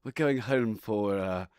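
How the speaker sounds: lightly voiced flirtatious aristocrat; flirty posh noble. Player character flirting with the footmen, lightly hammed-up noble. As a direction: purr it out like a teasing noble.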